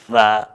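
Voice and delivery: "th-" released from a t into a vowel. Shown as a demonstration. Teacher explaining the release between words, sustained th. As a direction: let "th-" go out of a stopped t. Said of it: "you're releasing".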